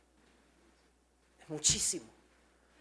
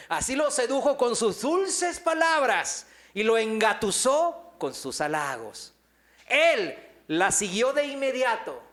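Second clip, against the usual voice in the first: higher, louder, slower, laughing through the verse; laughing reading; 4 semitones higher, 4 dB louder than usual. Acted. Preacher reading Proverbs to the congregation, laughing. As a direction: savour the seductive words with a laugh. Reads seductive proverb playfully.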